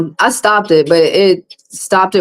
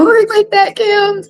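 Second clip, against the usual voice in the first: laughing; 14 semitones higher, slower than usual. Real, not acted.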